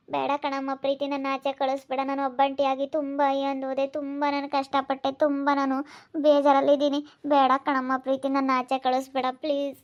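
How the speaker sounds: acted, mildly weepy begging; tearful pleading. Aunt begging Preethi not to send her away, tearful pleading. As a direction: plead through tears, voice held in. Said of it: "ಏನಾಯ್ತು ಅಂತ ಅಳ್ತಾ ಇದ್ದೀರಾ".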